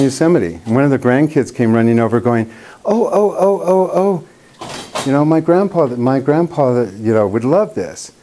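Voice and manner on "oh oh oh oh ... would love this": put-on high, eager little boy voice, tumbling out; excited kid. Grandkid running over to tell the painter about grandpa, high and eager. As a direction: imitate a six-year-old bursting to tell you.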